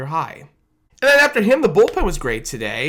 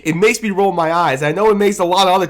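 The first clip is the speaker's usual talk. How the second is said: laughing in exasperation; 2 semitones higher, 4 dB louder, faster than usual. Real, not acted. Annoyed fan laughing it off.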